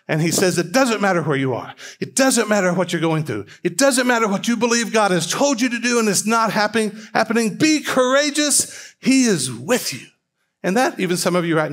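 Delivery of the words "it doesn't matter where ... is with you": a hint of a fired-up preacher, rising higher toward "Be courageous"; wound-up preacher. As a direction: lightly imitate a preacher building up steam. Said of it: "the preacher gets wound up".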